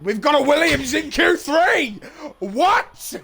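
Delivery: high, rising race call; astonished excitement. Real, not acted. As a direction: exclaim in real disbelief at the result. Unexpected result called live.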